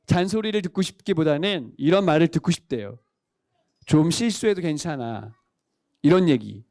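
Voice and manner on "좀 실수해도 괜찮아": put-on low, slow, reassuring words to a child; reassuring parent. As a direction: let a child off gently, unhurried and low. (낮고 느리게 다독이는 부모 말투)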